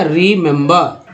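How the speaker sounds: "रिमेंबर" slowly as ree-mem-buh; drawn-out "रिमेंबर" ending in uh; correct pronunciation. Shown as a demonstration. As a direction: recap "रिमेंबर" with three different E vowels. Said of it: "क्या उच्चारण हुआ?".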